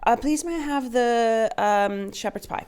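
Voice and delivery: slow, light Irish-Scottish lilt; a put-on polite Irish voice, fading; mock Irish accent. Teammate ordering shepherd's pie in mock Irish lilt. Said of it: "it goes to Irish or Scottish".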